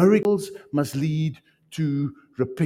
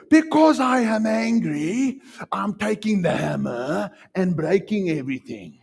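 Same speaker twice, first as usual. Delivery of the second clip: mock hothead; 5 semitones higher than usual. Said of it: "you can't say".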